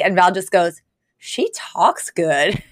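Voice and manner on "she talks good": very slow, dim-witted awe; dumb admiring remark. Retold or imitated. Friend watching the rehearsal, slow and dim. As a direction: drag it out like it barely computes. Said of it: "They're so dumb".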